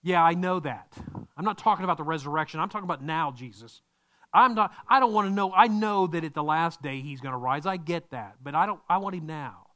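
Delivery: mock sarcastic grieving sister. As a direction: brush off the promise, demand it now. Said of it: "I can almost hear the sarcasm".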